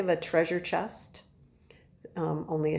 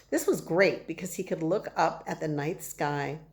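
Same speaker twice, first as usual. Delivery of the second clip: story narration. A narrator's reading. Reads the chapter to children.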